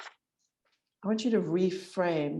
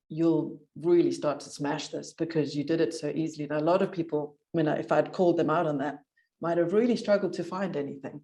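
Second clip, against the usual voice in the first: shivering. Real, not acted. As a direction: voice shaking from cold. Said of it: "Sorry, I'm shivering".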